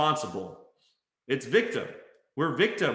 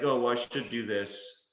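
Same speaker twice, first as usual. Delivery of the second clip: reluctant, lower-pitched "should"; mildly resigned to a duty; uninspired obligation; 4 semitones lower than usual. Acted. Someone talking from a place of force, uninspired. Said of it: "it's not inspiring".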